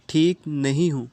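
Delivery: mildly tearful, voice pushed out; crying voice. Acted. Ex-lover on the phone, lightly tearful admission. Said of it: "آگے سے روتی ہوئی آواز میں بولی".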